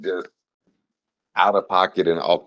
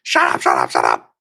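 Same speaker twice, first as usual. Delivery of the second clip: yelling shut up over and over; frustrated shout; 7 semitones lower than usual. Retold or imitated. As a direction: shout at him to stop. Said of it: "It's like".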